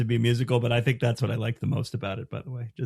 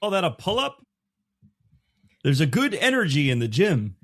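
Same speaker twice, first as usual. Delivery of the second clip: White Goodman impression; 8 semitones higher, 3 dB louder than usual. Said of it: "White Goodman".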